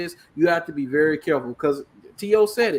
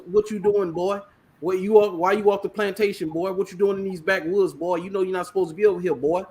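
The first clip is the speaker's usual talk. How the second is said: Southern drawl; 2 semitones higher than usual. Retold or imitated. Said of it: "that Southern talk from the old movies".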